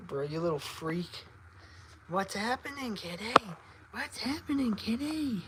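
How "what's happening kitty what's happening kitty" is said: high, soft lilting coo; cooing pet talk. Real, not acted. Owner checking on kitty, soft high coo. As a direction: softly coo a question to a pet.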